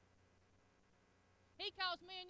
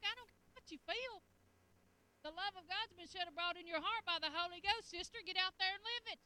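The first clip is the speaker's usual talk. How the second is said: firm, raised voice of God; God voice, stern; 3 semitones higher, 5 dB louder than usual. Retold or imitated. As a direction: lay it down like a stern preacher. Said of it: "He's like".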